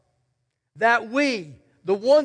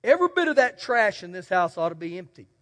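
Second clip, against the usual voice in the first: retold father's order; 3 semitones lower, 3 dB quieter, faster than usual. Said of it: "my dad would tell me".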